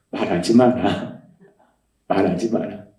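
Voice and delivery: low, slow, gentle command; hushed low divine reply; God's inner voice. Retold or imitated. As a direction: answer softly as God within. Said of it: "그 대답이 뭐냐면".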